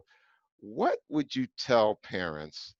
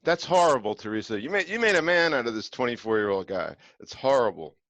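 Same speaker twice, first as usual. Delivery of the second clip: mock outrage; 3 semitones higher, 5 dB louder than usual. Mock outrage at Teresa's parenting.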